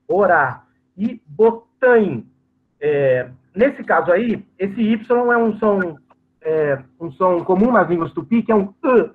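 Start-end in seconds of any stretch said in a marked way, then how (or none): 0.1-0.6 "orá" stressed on the final A; tônica no final. Shown as a demonstration. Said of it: "é a sílaba tônica". 1.3-2.3 "botanho" said slowly as a model word; pronunciation demo. Shown as a demonstration. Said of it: "é a sílaba tônica". 8.8-9.1 "E" said as a vowel between I and U; vowel demo. Shown as a demonstration. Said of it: "uma letra entre o I e o U".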